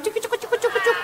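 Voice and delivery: high clinking cuk cuk noises; jingle imitation. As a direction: mimic tin ornaments jingling. Imitates jingling hijab ornaments. (menirukan bunyi kaleng bergemerincing)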